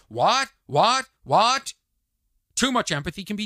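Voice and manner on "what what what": high, loud, rising repeats; mock shock. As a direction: fire off scandalised disbelief.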